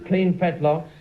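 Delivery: laughing auctioneer selling a filly, pitched high; auctioneer patter. Pretend. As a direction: play the jolly horse-sale auctioneer, giggling through it. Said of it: "David, I'll tell you what we'll do. We'll make her a horse".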